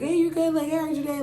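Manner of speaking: high-pitched, casual mock greeting; imitated casual check-in. Her date checks up on her daily, casual high voice. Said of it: "just doing the casual talk".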